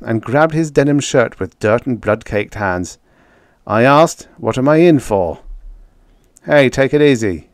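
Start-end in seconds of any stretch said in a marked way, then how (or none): 3.7-5.4 louder, pressing the question hard; repeating the demand with force; insistent demand. Acted. Horner repeats demand, forcing Jake. 6.4-7.5 a rough, louder warning growl. A narrator's reading. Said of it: "Jake growled".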